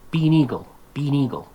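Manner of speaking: "be an eagle" run together as one word; linked words. Shown as a demonstration. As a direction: link "be an eagle" with no gaps. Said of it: "They put three words together".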